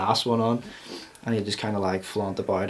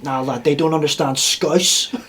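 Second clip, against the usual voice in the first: put-on Scouse accent; 4 semitones higher than usual. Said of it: "He's like".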